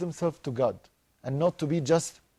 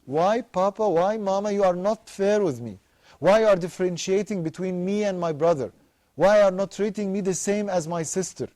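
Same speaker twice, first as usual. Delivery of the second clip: put-on pleading child; 4 semitones higher than usual. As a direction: plead with Papa and Mama like a hurt child.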